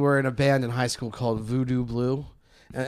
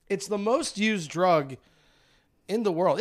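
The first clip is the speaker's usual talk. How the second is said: talking while smoking a joint; words round a joint held in lips; joint in mouth; 3 semitones higher, slower than usual. Real, not acted. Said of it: "hard to talk and smoke a joint".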